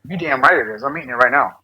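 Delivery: talking with a mouthful; words around a bite of bread; chewing while talking. Real, not acted. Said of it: "So if you hear me chomping".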